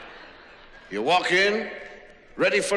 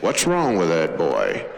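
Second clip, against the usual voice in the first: low, slow father's grumble; a puzzled father, pitched low and slow; exasperated father; 10 semitones lower, slower than usual. Retold or imitated. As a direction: sound like a baffled dad. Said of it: "he was always saying".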